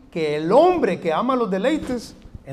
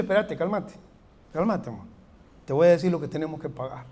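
soothing spouse; 5 semitones lower, 3 dB quieter than usual. Retold or imitated. Spouse calms the impulsive one.

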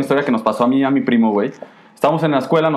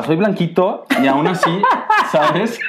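laughing; 5 semitones higher, slower than usual. Real, not acted. Laughing while telling story.

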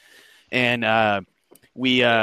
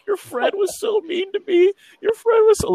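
hammed-up weepy complaint, pitched sky-high; mock crying; 4 dB louder than usual. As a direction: imitate a crying girl in squeaky falsetto. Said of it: "she, like, started crying".

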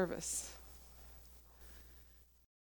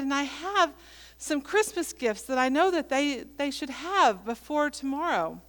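higher, emphatic pleading; retold urgent plea; 5 semitones higher, 4 dB louder than usual. Preacher tells an old man about undelivered Christmas gifts, urgently. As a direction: press the stranger for help as you retell it.

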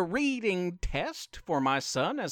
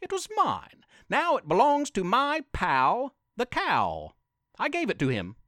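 higher, lightly voiced frog; a hint of a chirpy frog; 5 semitones higher than usual. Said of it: "said a green frog".

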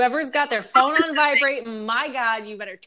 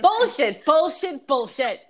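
laughing; 4 semitones higher, 4 dB louder, slower than usual. Real, not acted. Teasing the host, laughing.

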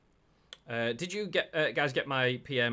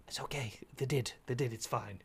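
hushed self-reassurance; whispering to himself. Pretend. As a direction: whisper it under your breath. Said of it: "Voices in your head".

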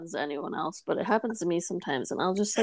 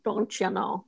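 mock Midwestern catchphrase; Midwest accent; 4 dB quieter than usual. Echoing friend's teasing about home, mock Midwestern accent. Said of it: "I hear a little bit of that".

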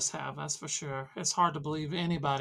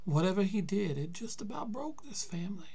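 unvoiced, hushed confession; old uncle whispering about the family shame; whispered secret; 5 semitones higher than usual. Old man confides a secret.

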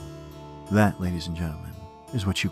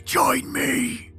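much higher, wailing ghost voice; dying cat wail. A narrator's reading. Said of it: "she sounds almost like a dying cat".

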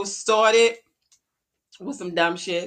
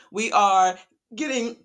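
choking mid-sentence; words caught by a choke; choking on a drink; 4 dB louder, slower than usual. Real, not acted. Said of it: "I'm choking".

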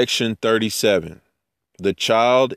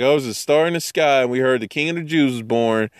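fast, raised, fretful crowd; mock panic; 3 semitones higher, faster than usual. Jerusalem crowd reacting to the star, hurried mock panic. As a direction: rattle it off like a startled crowd. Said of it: "everybody's freaking out".

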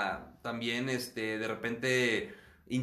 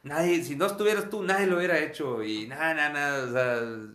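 mock grandiose boasting; 3 semitones higher, 5 dB louder than usual. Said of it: "cuando estoy maníaco".

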